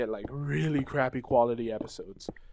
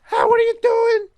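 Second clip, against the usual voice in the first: loud, sing-song mock sister barging in; bursting sister greeting; 9 semitones lower, 17 dB louder than usual. Sister barging into the room, loud mock greeting. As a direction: shout a bright hello as the intruding sister. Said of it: "and she's like".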